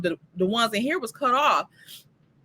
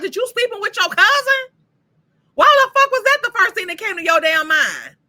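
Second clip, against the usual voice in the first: mock angry; 8 semitones higher, 5 dB louder than usual. Haley yelling at Randy.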